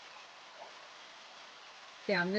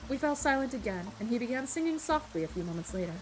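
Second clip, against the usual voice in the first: measured audiobook-style reading; story narration; 3 semitones lower, 4 dB quieter than usual. A narrator's reading. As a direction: read the tale aloud as its narrator. Reads a story aloud.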